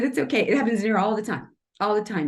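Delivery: retold comforting, light and hurried; reassuring. Artist telling a crying customer it's normal, reassuring.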